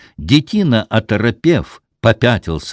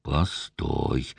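command through teeth; 8 semitones lower, 9 dB quieter than usual. A narrator's reading. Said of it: "приказал сквозь зубы".

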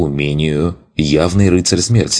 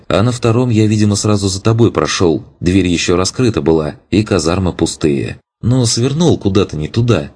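higher, lively eager lad voice; eager young rogue; 3 semitones higher than usual. Acted. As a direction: chatter on proudly. Young elf character speaking.

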